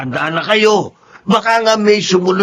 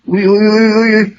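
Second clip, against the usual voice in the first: warning; 6 semitones higher, 5 dB louder than usual. Acted. Wife warning husband sharply.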